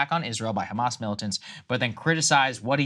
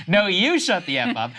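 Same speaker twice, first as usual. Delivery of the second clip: higher, louder mock yell of "you"; retold yell; 7 semitones higher, 4 dB louder than usual. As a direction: punch "you" hard as if yelling back. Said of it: "He went nuts and yelled back".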